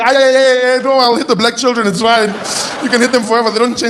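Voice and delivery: high-pitched granny voice; protesting grandmother. Retold or imitated. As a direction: refuse in mock dismay.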